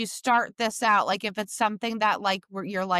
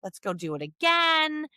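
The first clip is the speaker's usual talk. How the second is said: bright, higher cheering on; upbeat praise to the dog; 5 semitones higher than usual. Shown as a demonstration. Trainer cheering her hesitant dog along, upbeat. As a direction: cheer the dog on, pitch lifted. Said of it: "You can help them verbally".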